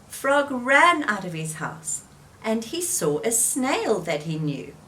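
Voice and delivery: lively read-aloud voice with clear character turns; story reading for children. A narrator's reading. Teacher reading Frog and Toad to children, lively storytelling. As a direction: tell it gently to little listeners.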